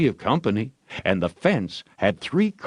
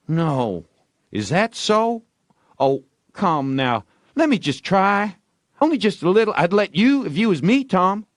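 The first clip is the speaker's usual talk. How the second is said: high, louder, wheedling; excited begging boy; pleading Ben; 10 semitones higher, 4 dB louder than usual. A narrator's reading. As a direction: beg harder.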